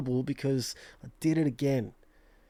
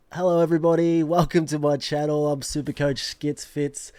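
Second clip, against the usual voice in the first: loud, slightly raised greeting to viewers; channel intro attempt; 6 dB louder than usual. Shown as a demonstration. YouTuber greeting viewers with a practice intro, loud channel welcome. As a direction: belt out a channel welcome, evenly. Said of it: "That never gets easier. We'll work on that".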